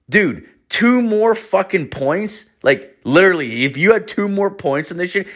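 high-pitched mock disbelief; imitated astonishment; incredulous instructor. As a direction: stretch it out, high and stunned. Instructor stunned by the reading.

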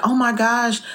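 lightly imitated, high-pitched gushing; retold delight. Elderly lady walking up to praise a daughter, mildly acted delight. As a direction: gush a little, voice lifted.

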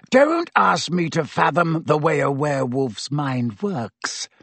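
plain reading voice

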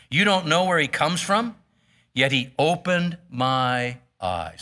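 measured Bible reading, quotes lightly voiced; steady pulpit reading voice; scripture reading. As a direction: read the passage to the congregation. Reads scripture aloud.

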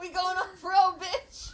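high, laughing, loud; laughing shout. Real, not acted. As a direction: yell it while cracking up.

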